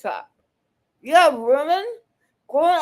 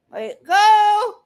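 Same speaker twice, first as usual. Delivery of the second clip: much higher and louder, losing patience; angry shout; 7 semitones higher, 7 dB louder than usual. Real, not acted. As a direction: bark it the second time, fed up. Repeats demand, then escalates.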